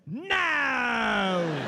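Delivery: sharp no. Retold or imitated. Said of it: "And a singer said".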